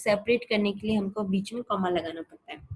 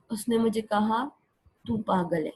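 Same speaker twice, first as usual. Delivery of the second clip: "उसने मुझे कहा", a short gap, then "तू पागल है"; pause after kaha. Shown as a demonstration. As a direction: mark the comma with a small stop. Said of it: "थोड़ा सा मेरे बोलने में थोड़ा सा गैप आया है".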